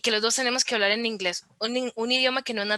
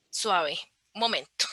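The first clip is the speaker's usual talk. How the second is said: slow, lower self-check; reflective pause; 5 semitones lower than usual. Retold or imitated. Speaker recalls telling themselves to wait, slow and reflective. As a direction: ease right down, as if halting yourself. Retold moment of stopping to reflect.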